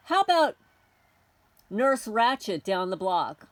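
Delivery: sarcastic loud taunt; mocking taunt. Real, not acted.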